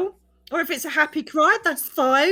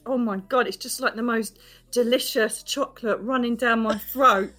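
normal talking voice

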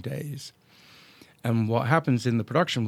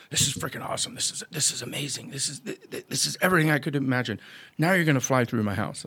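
gushing excitement; 3 semitones higher, faster than usual. Retold or imitated. Client gushing over drone flight.

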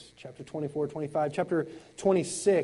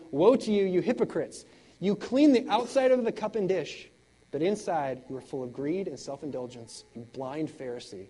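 denouncing rebuke; 4 dB louder than usual. Acted. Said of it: "he says".

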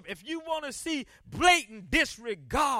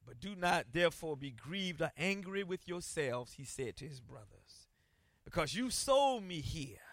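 quiet, low reading of Joseph's words; hushed voice of Joseph forgiving his brothers; soft scripture reading; 10 semitones lower, 12 dB quieter than usual. Acted. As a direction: read it hushed and tender. Joseph's words read softly.

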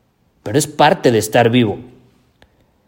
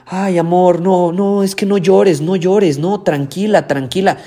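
higher, mock-soothing hushing of a crying girlfriend; mock soothing boyfriend; 6 semitones higher than usual. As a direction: parody a boyfriend shushing her tears. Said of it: "y le dicen".

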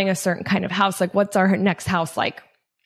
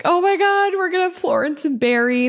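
high, overwhelmed mock sob of joy; teary excitement; 10 semitones higher than usual. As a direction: gush like happy tears are coming. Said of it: "I just bursted out crying, like".

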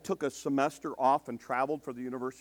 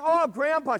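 mock whiny girl; 14 semitones higher, 9 dB louder, slower than usual. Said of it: "she's like".

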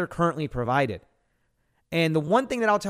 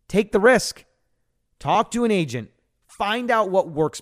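urgent push; 6 semitones higher than usual. Real, not acted. Host urges listeners to act.

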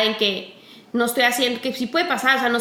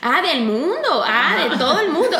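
put-on teasing the teen with "Ah, del mundo", laughing; unbothered reply; 3 semitones higher than usual. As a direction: shrug off "de todo el mundo", amused. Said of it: "Ya ahorita ya les digo así".

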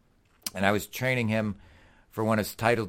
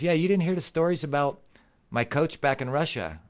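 higher-pitched imitation of a Russian accent; 6 semitones higher than usual. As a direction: retell it as the Russian boxer. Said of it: "says to me in his Russian accent".

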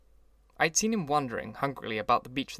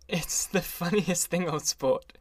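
hilarious; 5 semitones higher, slower than usual. A narrator's reading. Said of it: "he said, hilariously".

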